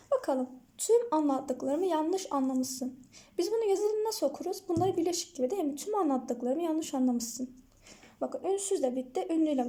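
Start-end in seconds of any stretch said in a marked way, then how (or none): 0.8-3.0 slow, words run together: "Tümanlattıklarımı yanlışanlamışsın"; linked reading. Shown as a demonstration. Teacher demonstrating linked reading to students, slowly. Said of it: "iki kelime birbirine bağlanarak okunuyor". 5.8-7.5 slow, words run together: "Tümanlattıklarımı yanlışanlamışsın"; linked reading. Shown as a demonstration. Teacher demonstrating linked reading to students, slowly. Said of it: "birleştirerek okuruz".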